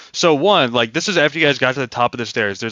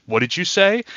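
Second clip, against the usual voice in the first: higher, challenging bugbear demand; suspicious bugbear; 6 semitones higher than usual. Acted. One bugbear turns on the other, accusing. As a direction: spin round on your buddy, accusing.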